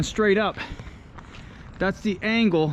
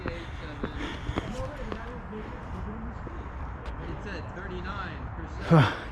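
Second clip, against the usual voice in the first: winded exhale; 3 semitones higher, 10 dB quieter than usual. Real, not acted. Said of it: "Now I'm out of breath".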